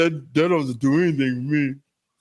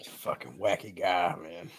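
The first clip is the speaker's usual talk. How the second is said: whispering; 10 semitones lower, 12 dB quieter than usual. Real, not acted. Aside while the judge story is read.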